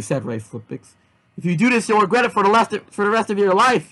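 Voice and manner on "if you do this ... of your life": high, urgent warning; mock scream. A narrator's reading. Yazzie warns Mario he'll regret it, a mild mock scream. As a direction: raise the pitch as if screaming a warning. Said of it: "Yazzie screamed".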